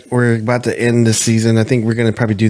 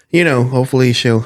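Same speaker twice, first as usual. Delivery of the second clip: sudden yell; 3 semitones higher than usual. Real, not acted. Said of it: "I don't know why I yelled that".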